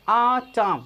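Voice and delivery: आ चाम said slowly, long open aa in each part; drawn-out syllables. Shown as a demonstration. Teacher showing learners the आ sound, slow drawn-out demo. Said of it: "आ उच्चारण है यहाँ".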